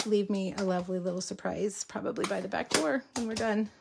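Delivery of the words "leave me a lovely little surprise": normal talking voice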